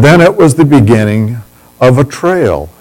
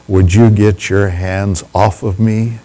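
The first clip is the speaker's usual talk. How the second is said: mock gruff; 3 semitones lower, 5 dB quieter than usual. Teasing girl after hug.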